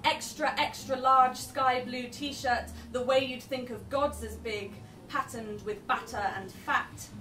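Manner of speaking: slow, rhythmic poetry reading; spoken word poem. Acted. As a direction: savour each line like a poem. Performs poem Five Star Fish Bar.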